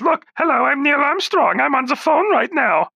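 a thin put-on Armstrong voice; Neil Armstrong impression. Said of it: "You wanna talk to Neil Armstrong? Here he is".

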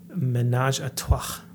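slow, lightly put-on French accent; a first try at sounding French. Shown as a demonstration. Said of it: "Get into the French accent".

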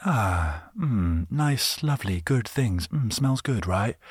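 light dreamy sniffing appreciation; savoring delight. Retold or imitated. Imagining a pleasant aroma, savoring delight. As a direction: mm and ahh over a nice smell. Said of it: "you think".

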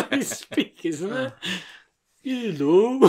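put-on five-year-old reading aloud. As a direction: sound out each word like a child. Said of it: "like a five-year-old reading from a book".

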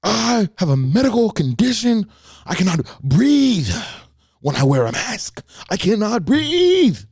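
very high, slow mock shriek claiming she can't breathe; screaming customer. Caller insisting on her medical condition, in a high mock wail. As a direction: wail it in falsetto like a dramatic complainer. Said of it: "screaming on the phone".

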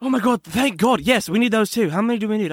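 lightly put-on British accent, eager; a touch of a posh British gentleman. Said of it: "talking this, this accent still".

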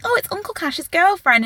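high-pitched imitation of excited children; teasing kids. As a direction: pitch it up like kids announcing gossip. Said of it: "The kids are like".

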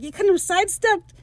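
high, prissy reproach; snooty complaint. Retold or imitated. Steed scolding bloodied Lucius, high snooty whine. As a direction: whine it like a spoiled dandy.

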